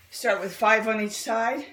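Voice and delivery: a little short of breath; breathless between exercises. Real, not acted. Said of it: "I'm just short of breath here this morning".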